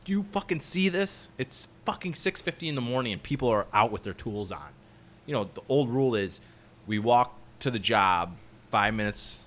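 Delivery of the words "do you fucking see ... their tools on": high-pitched mock rant about the early crew; imitating an irate old-school ironworker; angry coworker rant. Operator complaining on the phone, high mock rant. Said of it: "He'll be like".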